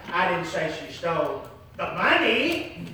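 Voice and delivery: rising lift on "money"; stress on money. Shown as a demonstration. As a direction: lean into "money" at the end. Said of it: "Let me say it in different ways".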